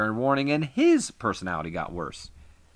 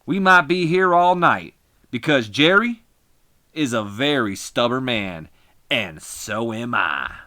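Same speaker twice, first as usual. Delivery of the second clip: angry wrestler promo; 5 dB louder, slower than usual. Acted. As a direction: bark it into the mic like a furious heel.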